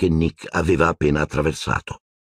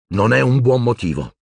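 resolute, slightly louder; firmly; 6 semitones higher, 3 dB louder than usual. A narrator's reading. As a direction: stand up for her. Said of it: "disse deciso". (Harry deciso che difende Luna)

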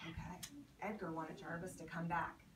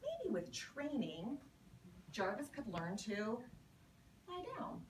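put-on lively read-aloud to children; story reading; 2 semitones higher, slower than usual. A narrator's reading. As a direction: read it like a picture book for kids. Teacher reads picture book aloud.

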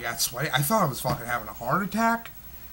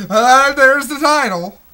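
sarcastic aside; 10 semitones higher, 13 dB louder than usual. Real, not acted. Sarcastic aside about title.

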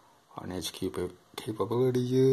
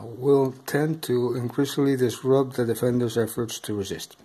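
stiff monotone rulebook reading; robotic voice; 4 dB louder than usual. Real, not acted. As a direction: read it out flatly like a robot. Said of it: "I know I sound like, uh, a bit robotic here".

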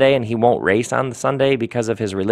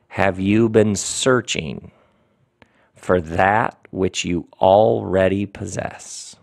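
slow, measured sermon with long pauses; solemn preaching. Real, not acted. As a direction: address the congregation gravely, phrase by phrase.

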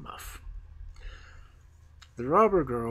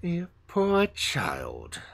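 pitying whisper; 4 semitones higher, much slower than usual. Acted. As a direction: breathe it out with pity, very slow. Princess pities the child.

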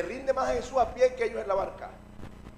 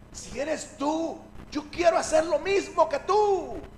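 high, raised-voice declaration; calling out; 7 semitones higher, 5 dB louder, slower than usual. Acted. Pedro tells Jesus he wants to do the same, high calling out. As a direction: swell into a loud, eager call.

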